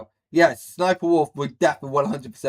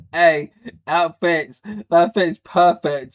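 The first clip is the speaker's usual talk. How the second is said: pleased; 6 dB louder than usual. Real, not acted. Delighted by the joke about a rapper.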